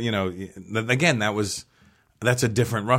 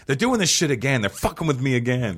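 aggrieved retold outburst, slightly higher; retold grievance; 5 semitones higher than usual. Comic recalling suspected racism, retold indignation. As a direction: replay feeling singled out, mildly heated. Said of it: "I took it so personally".

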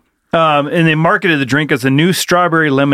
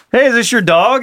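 higher-pitched call to a stranger; 7 semitones higher than usual. Retold or imitated. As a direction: hail someone down the street, re-enacted. Calls out to man on street.

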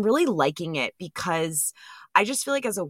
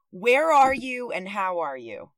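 higher, slow and deliberate question; pointed re-asking; 4 semitones higher than usual. Real, not acted. Host re-asking her unruly guest, pointed and slow. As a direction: spell the question out patiently, higher and slower.

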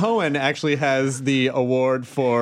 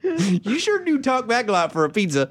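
put-on playful, pitched-up Southern accent; 5 semitones higher than usual. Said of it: "I go into that accent".

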